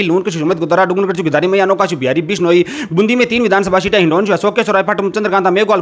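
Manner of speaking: rapid-fire list recitation; all in one breath. Shown as a demonstration. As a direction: rattle off the names nonstop. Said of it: "दो सौ साठ second के अंदर बता दिए हैं".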